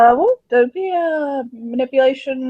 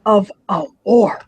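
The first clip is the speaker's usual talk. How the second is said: emphatic, louder, mildly heated; stern rebuke; 4 dB louder than usual. Acted. He rebukes her in the middle of a war, stern. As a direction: drive the point home firmly. Acted quarrel about the enemy.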